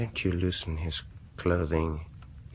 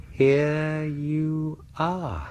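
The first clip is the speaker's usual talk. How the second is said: gloating reveal; 10 semitones higher, much slower than usual. Acted.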